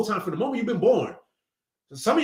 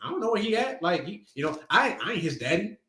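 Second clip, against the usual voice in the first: rude retort; 3 semitones higher than usual. Acted. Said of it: "He's being rude".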